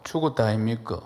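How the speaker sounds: lightly imitated Gyeongsang speech; Gyeongsang dialect. Shown as a demonstration. Preacher comparing dialects for the congregation, Gyeongsang version. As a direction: say it as a Gyeongsang local would. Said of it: "경상도 말로".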